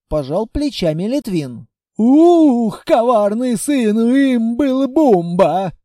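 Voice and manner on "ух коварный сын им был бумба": louder, slow, seething curse; furious warrior hissing; angry hiss. Acted. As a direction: spit the name out in fury. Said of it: "зло прошипел Мундалабай".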